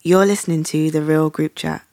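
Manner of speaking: smooth sultry radio intro; sexy voice. Pretend. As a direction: lay it on like a late night DJ. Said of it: "I have to get my sexy voice on".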